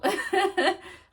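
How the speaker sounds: bright high laugh; amused giggle. Real, not acted. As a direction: laugh at yourself. Laughing at own story.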